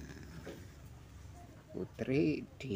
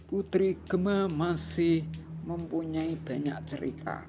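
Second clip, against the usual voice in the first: over enunciating; 7 semitones higher, 5 dB louder than usual. A narrator's reading. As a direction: count each stack out for kids. Reading picture book aloud.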